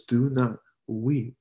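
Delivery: put-on slow, gentle "Do not weep" spoken like soothing a hurt child; gentle comfort. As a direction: ease "Do not weep" out slowly and tenderly. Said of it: "He says".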